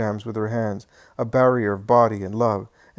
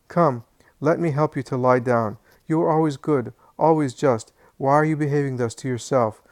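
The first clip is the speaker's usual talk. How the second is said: a touch of tears, higher and louder pleading; tearful imploring; 3 semitones higher, 4 dB louder than usual. Acted. Wife pleads with her raging husband, mildly tearful. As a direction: beg your sick husband gently to calm down. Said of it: "Mary of Alphaeus' tearful voice implores".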